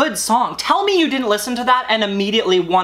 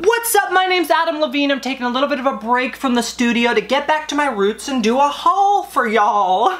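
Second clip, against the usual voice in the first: mock celebrity intro; 4 semitones higher than usual. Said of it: "Just kidding, I'm not going crazy".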